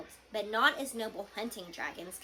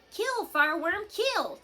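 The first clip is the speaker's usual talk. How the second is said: much higher, louder yelled command; yelling; 9 semitones higher, 6 dB louder than usual. A narrator's reading. Snoutlout yells at his dragon to attack. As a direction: urge the dragon on with a yell. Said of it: "broke off yelling".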